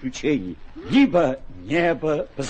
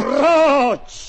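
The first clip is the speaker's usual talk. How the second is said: loud high command; angry shout; 9 semitones higher, 6 dB louder than usual. Acted. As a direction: yell at the cat. Knight still battles the cat.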